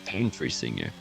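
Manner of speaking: American country singer. Pretend. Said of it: "I'm gonna be a country singer".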